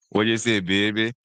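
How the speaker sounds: New Orleans drawl; drawn-out New Orleans accent. Retold or imitated. Showing how they draw out words, New Orleans accent. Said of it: "They draw, they draw that thing".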